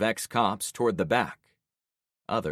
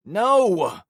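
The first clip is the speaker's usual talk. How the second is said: much higher, louder wail; 12 semitones higher, 9 dB louder than usual. Acted. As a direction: cry out in despair. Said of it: "Javon wailed".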